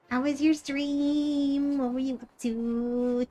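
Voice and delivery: a gentle hint of anime cuteness; cute anime streamer. Asking raider about stream.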